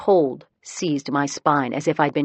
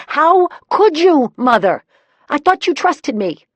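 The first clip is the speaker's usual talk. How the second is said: wailed; 12 semitones higher, 7 dB louder than usual. A narrator's reading. Daughter wailing at her mother over the report. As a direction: wail it out, hurt and betrayed.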